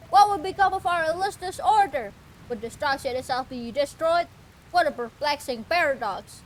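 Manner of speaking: lightly voiced solemn doom preacher; a hint of a grandiose cult disciple; doom cultist. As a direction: proclaim it like a gloomy zealot. Reading cultist NPC.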